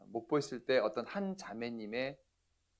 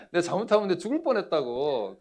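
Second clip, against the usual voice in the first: loud, high mock outcry; retold emphatic complaint; 6 semitones higher, 8 dB louder than usual. Pastor exclaims to his wife about the danger, emphatic complaint. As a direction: insist on it loudly, higher-pitched.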